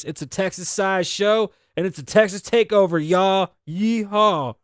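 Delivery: show intro. Acted. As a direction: kick off the show like an announcer. Restarts as show host.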